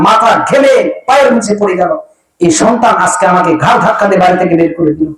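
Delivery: mild imitated lament, no real sobs; weeping parent. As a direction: plead to Allah like a wronged old parent. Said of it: "বসে আর কান্না করে". (বৃদ্ধ বাবা-মায়ের আক্ষেপের হালকা নকল)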